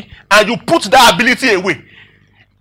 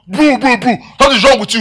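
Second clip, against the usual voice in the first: raised, higher-pitched mock outburst; angry confrontation; 5 semitones higher, 4 dB louder than usual. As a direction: square up like an aggrieved driver. Acts out confronting the other driver.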